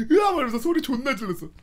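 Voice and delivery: usual speaking voice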